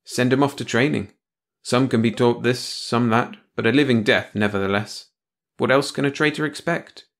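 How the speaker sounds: lightly voiced bitter man; dry, cynical explaining; Tony, bitter. Tony explains negamoting to her.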